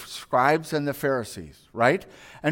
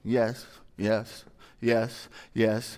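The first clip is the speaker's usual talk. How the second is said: low, quick nodding yeses; mindless yeses; 8 semitones lower, much slower than usual. Retold or imitated. Trainee brushing off the trainer, mumbling low yeses. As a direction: rattle off yeses without listening.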